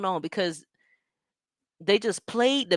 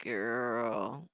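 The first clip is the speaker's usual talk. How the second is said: whisper; 8 semitones lower, 10 dB quieter than usual. Real, not acted. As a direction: whisper it like you can't believe your eyes. Reacting to a nasty picture.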